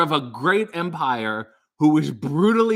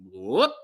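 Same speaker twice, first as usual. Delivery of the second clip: whoop; 4 semitones lower than usual. Pretend. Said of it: "it was the whoop".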